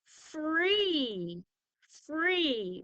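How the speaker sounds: "free" with a long ee, lifted; long E sound. Shown as a demonstration. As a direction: show the long ee in "free" clearly. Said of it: "a word like".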